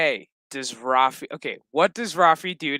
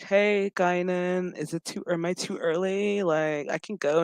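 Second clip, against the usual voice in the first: a hint of a camp, hesitant visitor; camp greeting, imitated; 3 semitones higher than usual. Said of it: "you could tell he's gay".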